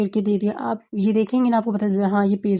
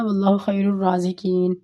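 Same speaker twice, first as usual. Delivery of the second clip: short recitation. Shown as a demonstration. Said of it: "اب خیر جو ہے نا".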